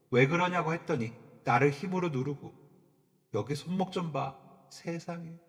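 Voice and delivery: high, lightly voiced crying complaint; stepmother's tearful accusation. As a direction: whine the lie to her husband. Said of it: "여자가 막 울면서". (울먹이며 남편에게 고자질하는 계모)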